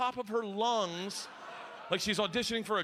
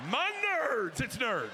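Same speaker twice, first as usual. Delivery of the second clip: jubilant relief; 5 semitones higher, slower than usual. Retold or imitated. Parents celebrating in relief.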